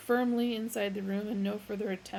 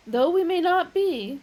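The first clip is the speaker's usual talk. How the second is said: very loud, much higher; warning; 9 semitones higher, 12 dB louder than usual. A narrator's reading. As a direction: wag it as a warning. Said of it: "waving a warning finger".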